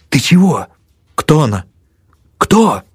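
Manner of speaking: high eager questions; curious friend. Acted. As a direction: press him for an answer. Hauk nudges, asks narrator. (любопытный шёпот друга)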